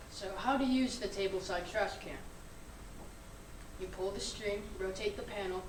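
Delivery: upbeat infomercial voice; chipper 1950s ad. Acted. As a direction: sell it like an old TV ad. Student reads a mock product ad.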